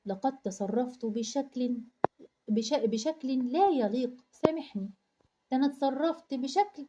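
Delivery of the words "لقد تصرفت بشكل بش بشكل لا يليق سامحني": slow, careful reading of the formal sentence. Shown as a demonstration. Teacher reads the boy's apology slowly to the class. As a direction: read it slowly, word by word, like a textbook line. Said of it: "وقال له إيه؟".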